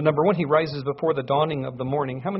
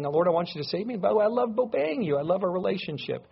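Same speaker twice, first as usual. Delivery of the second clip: higher-pitched, lightly voiced loving appeal to God; loving prayer; 5 semitones higher than usual. Psalmist telling the Lord he loves obeying, lightly acted loving prayer. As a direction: plead lightly and affectionately, pitch lifted. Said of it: "he loves the Lord. He's saying".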